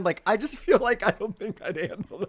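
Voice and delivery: high giggling admission; laughing. Real, not acted. Confessing to her cohost, laughing. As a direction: laugh through the line.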